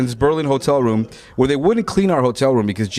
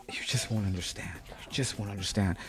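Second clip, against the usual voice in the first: very soft, low murmur; withdrawn; 4 semitones lower, 13 dB quieter than usual. Retold or imitated. James to friend from the bed, withdrawn. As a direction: imitate a friend sunk into himself. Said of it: "starts becoming really introverted".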